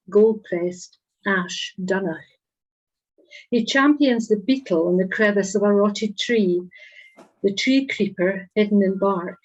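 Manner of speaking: measured poem recital with pauses between phrases; poetry reading. Acted. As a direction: read each image out deliberately, letting it land. Reads own poem aloud.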